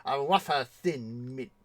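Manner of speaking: mild mock French courtesy; French maître d'. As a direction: offer it like a French waiter, pitch settling down. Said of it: "the Maître D' comes up and says".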